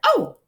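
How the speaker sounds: "Oh" said high as a long O. Shown as a demonstration. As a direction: stretch "Oh" as the letter name. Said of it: "long O sound like O".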